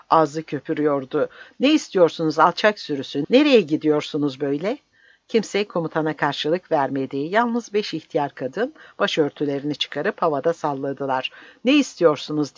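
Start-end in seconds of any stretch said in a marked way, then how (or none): 1.6-4.8 angry shout. Acted. Commander foaming at the crowd. 11.6-12.6 loud barked demand at the crowd; shouting again. Acted. Commander shouting again at the silent villagers, loud. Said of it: "diye haykırdı komutan yeniden".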